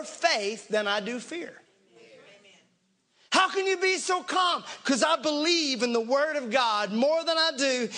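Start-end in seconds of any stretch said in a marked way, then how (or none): 3.3-4.6 acted disbelief, pitched up; mock-incredulous challenge. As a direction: demand it as the alarmed doubter. Acts out the frantic challenge.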